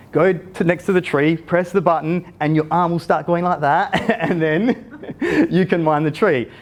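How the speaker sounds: giggling through the instructions; a boy amused at his dad; laughing kid. Retold or imitated. Son teaching dad to mine, giggling.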